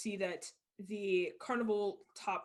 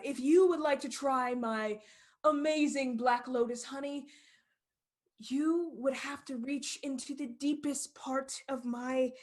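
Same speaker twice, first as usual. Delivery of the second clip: showman; 2 semitones higher, slower than usual. Acted. Showman addresses the crowd.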